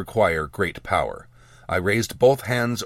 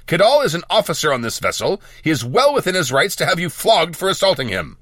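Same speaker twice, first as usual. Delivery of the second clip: high, urgent raised-voice warning; shouted; 8 semitones higher, 4 dB louder than usual. A narrator's reading. Mage warns apprentice of a flogging, shouted. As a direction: scold loudly, pitched well up. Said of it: "I shouted".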